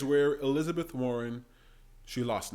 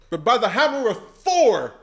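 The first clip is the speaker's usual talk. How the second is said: 1 laughing mock oath; 5 semitones higher, 7 dB louder than usual. Real, not acted.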